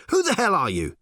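high-pitched, indignant demand; affronted challenge. A narrator's reading. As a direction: demand it, taking charge. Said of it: "he demanded".

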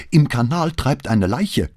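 high, loud, slow alarmed shout; screaming. A narrator's reading. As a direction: cry out the news across the house. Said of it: "schrie sie".

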